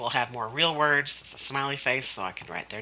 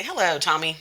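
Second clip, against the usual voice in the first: put-on higher, sing-out greeting for a child to copy; teacher's greeting; 4 semitones higher than usual. Teacher starting a copy-me game with Tommy, playful greeting. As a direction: call it out as a model to be copied. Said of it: "I'll say".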